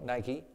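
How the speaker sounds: Nike said in two syllables, NY-kee; correct pronunciation. Shown as a demonstration. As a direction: pronounce Nike to rhyme with spiky. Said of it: "But for those who know".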